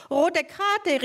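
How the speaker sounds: a player calling foul; a footballer shouting at Mortimer; called out. Acted. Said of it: "rief jemand".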